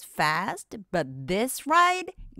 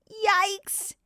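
mock fright; 10 semitones higher than usual. Watching the coaster.

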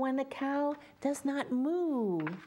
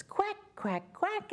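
a light duck quack rising higher; 11 semitones higher than usual. Acted. Reading to children, the duck quacks again. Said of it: "And she says".

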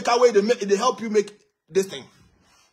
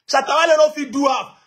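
louder, insistent "Shatta Wale no fit do half"; louder repeat; 4 semitones higher, 4 dB louder than usual. Real, not acted.

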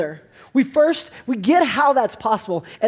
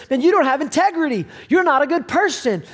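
higher and a bit faster, retelling his own attack; mock-angry retold outburst; angry accusation; 5 semitones higher than usual. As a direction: replay the heated accusation, raised. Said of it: "I got super angry".

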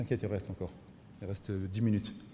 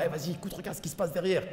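softer sly inner voice; tempting inner voice; 2 semitones higher, 6 dB quieter than usual. Retold or imitated. Inner voice luring the viewer on, softer. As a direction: whisper a temptation in the ear. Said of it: "tu vois cette petite voix".

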